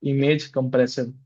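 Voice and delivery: each word spelled out slowly for typing; slow dictation. Shown as a demonstration. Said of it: "यहाँ पे लिखो".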